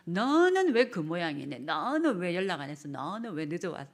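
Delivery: loud blaming questions, slowing at first; scolding. Shown as a demonstration. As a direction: nag the late spouse. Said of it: "이게 아니라".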